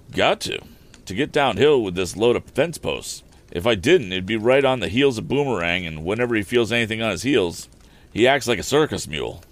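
a rustic carter explaining himself, lightly put on; rambling wagon driver.

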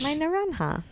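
high, airy mock Spanish naranja. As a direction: say naranja with a put-on Spanish accent. Mock-romantic repeating of nickname.

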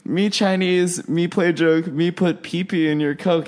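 hammed-up fake Asian accent; mock Asian accent. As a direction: recite the playground rhyme in a caricature voice. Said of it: "She said".

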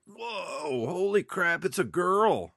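high, rising to a loud gasp; amazed kid. Retold or imitated. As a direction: blown away, like a wide-eyed kid. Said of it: "that was just like".

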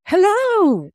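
mock American T-shirt hello. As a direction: chirp it like a tourist slogan. Mocking a T-shirt greeting.

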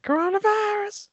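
high squealed imitation of a rapper; a rapper's shout. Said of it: "I love that".

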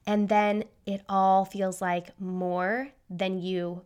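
measured pace with pauses between phrases; deliberately slowed down. Real, not acted. Host easing listeners into thoughts about overwhelm, deliberately slowed down. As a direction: ease off the rush, spacing out the thoughts. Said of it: "gonna try to slow down".

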